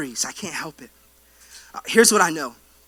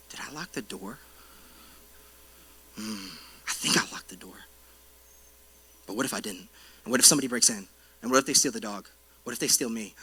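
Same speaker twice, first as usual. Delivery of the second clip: sleepy worry; 9 semitones lower, 9 dB quieter, faster than usual. Pretend. Worrier lying in bed at night.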